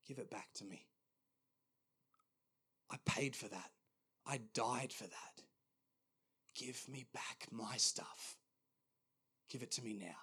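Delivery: hushed and deliberate, long pauses; quiet, solemn demand. Retold or imitated. Jesus asking for burdens back, quiet and unhurried. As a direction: let each short sentence land softly.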